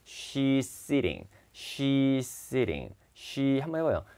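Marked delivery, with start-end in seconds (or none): 0.1-2.9 "she's sitting" run together in one breath, the z melting into s; linked without a break. Shown as a demonstration. Teacher models for students how the sounds merge, linked without a break. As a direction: say "she's sitting" smoothly linked, no gap between words. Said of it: "호흡을 끊지 말고".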